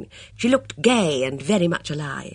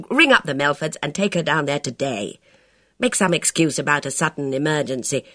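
quick, louder, self-mocking adventuress; lightly voiced daring woman, insistent; reckless worldly woman; 4 semitones higher, 4 dB louder than usual. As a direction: confess with defiant relish, then command. Bess's long confession and orders.

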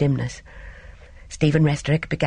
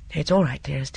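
reassuring. Acted. Calming his wife after shots.

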